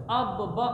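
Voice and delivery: اب با said as two parts, ab then ba; split into two syllables. Shown as a demonstration. Teacher splitting the word for a child, syllable by syllable. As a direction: break the doubled letter into اب and با. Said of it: "دو ہیں تو ہم نے اس کو پڑھنا بھی دو دفعہ ہے".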